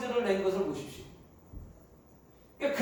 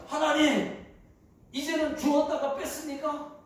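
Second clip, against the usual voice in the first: Jonah snapping at God, voice raised; sulky angry plea; petulant outburst; 3 semitones higher than usual. Acted. Jonah angry at God for losing the shade. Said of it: "또 화를 냅니다".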